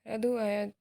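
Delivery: loud call across the house; calling out for the servant. Acted. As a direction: shout for the servant to come. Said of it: "नौकर को आवाज़ देता है".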